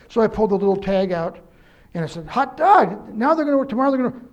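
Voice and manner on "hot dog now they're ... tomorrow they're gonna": mock excited. Retelling his excitement over the lights.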